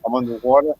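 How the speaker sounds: muffled bad connection; underwater sound. Real, not acted. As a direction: voice warbling through water. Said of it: "you sound like you're underwater".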